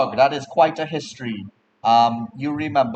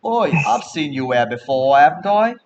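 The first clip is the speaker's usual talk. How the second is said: lightly voiced suspicious local; dwarf accosting a stranger; 4 semitones higher, 4 dB louder than usual. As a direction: call out a gruff challenge, rising on the question. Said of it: "one of them is going to look at you and says".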